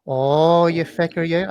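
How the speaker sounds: light Irish accent, mocking inner critic; Veteran Limbic. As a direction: needle yourself in an Irish lilt. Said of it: "I don't know why he's Irish".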